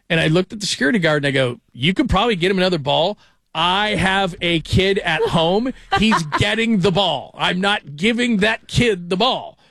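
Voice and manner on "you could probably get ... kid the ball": heated retold refusal. To the security guard, a raised, insistent refusal. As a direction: stand your ground with the guard, half laughing.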